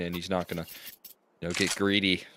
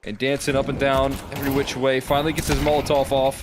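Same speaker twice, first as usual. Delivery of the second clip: excited play-by-play; 5 semitones higher than usual. Real, not acted. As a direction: call the fight with growing excitement. Caster hyping a clutch fight.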